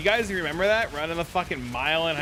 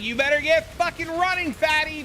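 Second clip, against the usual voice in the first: imitating gym teacher; 11 semitones higher than usual. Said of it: "And he's like".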